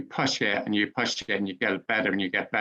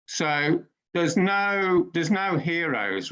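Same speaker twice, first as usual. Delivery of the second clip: drawn-out, higher "no" in "there's no heroes"; stressed denial; 4 semitones higher, slower than usual. Real, not acted. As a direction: lean hard on "no" and slow right down. Slow emphatic denial.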